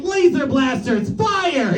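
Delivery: half-hearted toy superhero battle call; Iron Man. Acted. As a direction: miscast hero voice, making little effort. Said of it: "didn't even try".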